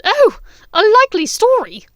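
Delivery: high, loud mocking scorn; scornful yell. Bellatrix mocking Hermione's story, loud. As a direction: sneer at her story.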